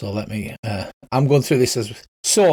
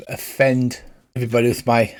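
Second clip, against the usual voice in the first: ordinary delivery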